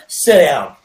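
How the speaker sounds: 大きめの声で短く命令; きっぱり座れと言い放つ; T's stern sit down. Retold or imitated. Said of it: "That was his other".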